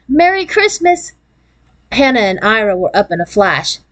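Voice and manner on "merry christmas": high, drawn-out joyful call; gleeful child, stretched and pitched up; excited cry. A narrator's reading. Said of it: "cried Jan".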